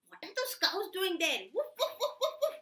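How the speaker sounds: high excited puppy voice with barks; high yapping puppy, laughing; curious puppy. Acted. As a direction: chatter and yap like a nosy pup.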